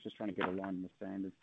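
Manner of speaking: muffled and soft, far from the mic. Real, not acted. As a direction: say it as if a hand covers your mouth. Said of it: "it's very muffled".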